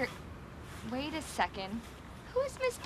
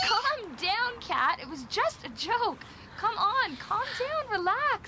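exasperated calming; 5 semitones higher, slower than usual. Acted. Soothing panicked friend.

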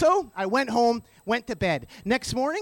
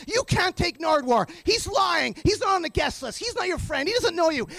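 objecting; 6 semitones higher than usual. Retold or imitated. Door staff object, acted.

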